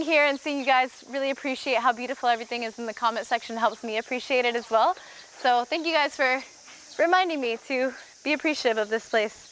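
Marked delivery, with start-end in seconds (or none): 5.4-9.5 winded, breathy from the heat; out of breath. Real, not acted. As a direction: talk while catching your breath. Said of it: "Sorry I'm out of breath".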